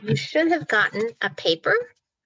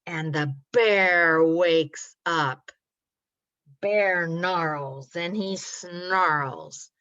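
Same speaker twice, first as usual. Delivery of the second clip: slow, lower growly storytelling; dramatic story narration; 3 semitones lower, slower than usual. A narrator's reading. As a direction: stretch the bear's angry verbs for children. Narrates the bear's grumpy waking.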